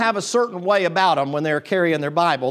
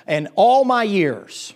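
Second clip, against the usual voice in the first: indignant lady; slower than usual. Retold or imitated. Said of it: "And she said".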